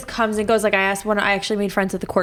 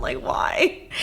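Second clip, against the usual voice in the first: whispered aside. Real, not acted. Aside on approaching anyone.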